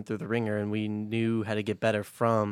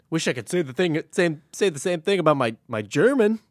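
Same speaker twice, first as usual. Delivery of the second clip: exaggerated complaint; 6 semitones higher, 6 dB louder than usual. Real, not acted. Mock complaint, rising pitch.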